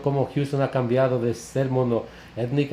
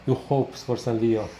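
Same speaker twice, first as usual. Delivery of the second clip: repeated slowly and clearly so the listener catches it; slower clarifying repeat. Real, not acted. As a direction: say it again, slower, for someone who missed it. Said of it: "Have what?".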